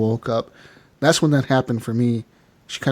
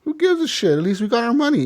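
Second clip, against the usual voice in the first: callous Strauss. Retold or imitated. Strauss not caring about the dead man, high sneer. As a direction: play the greedy moneylender. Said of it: "he's like".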